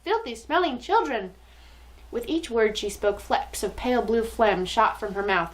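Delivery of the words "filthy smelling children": put-on mild accented scream. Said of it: "she screamed".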